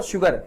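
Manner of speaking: शुगर repeated with sh, "shoogar"; correct sh sound. Shown as a demonstration. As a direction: say शुगर starting on sh. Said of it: "शुगर बोलेंगे". (शुगर को 'श' से शुरू करें)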